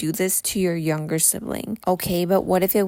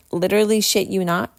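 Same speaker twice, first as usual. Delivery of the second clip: laughing through the words; giggling emphasis on literally; faster than usual. Real, not acted.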